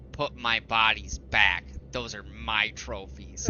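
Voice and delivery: slow, menacing serial killer; creepy killer claiming his trophies, slowly. Retold or imitated. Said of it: "in the most serial killer voice".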